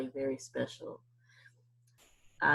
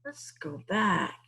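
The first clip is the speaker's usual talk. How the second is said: gasp of surprise; 3 semitones higher, much slower than usual. Acted. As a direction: gasp then a slow, hushed let's go back. Teacher surprised, pauses video.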